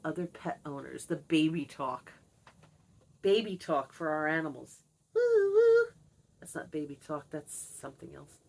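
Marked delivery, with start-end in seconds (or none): 5.1-5.9 very high, loud call; calling Star-Lord from across the house; calling the pet. Real, not acted. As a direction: call out to the dog, sing-song. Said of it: "Me calling Star-Lord".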